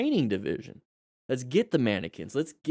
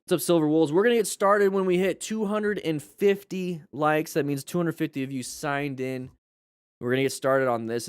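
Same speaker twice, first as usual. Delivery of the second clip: after nasal spray; 4 semitones higher than usual. Real, not acted. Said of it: "I just needed some nasal spray".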